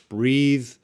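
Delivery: "breathe" with long ee; verb pronunciation. Shown as a demonstration. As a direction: stress "breathe" clearly, ending on a buzzed th. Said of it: "know how to pronounce these words".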